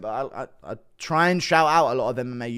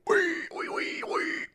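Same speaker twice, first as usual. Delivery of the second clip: high squealing pig noises; 4 dB quieter, slower than usual. Shown as a demonstration. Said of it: "Impression of a pig?".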